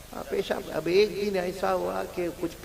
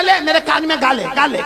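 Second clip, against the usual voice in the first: angry teacher; 7 semitones higher, 7 dB louder than usual. Retold or imitated. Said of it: "teacher نے غصے میں کہا".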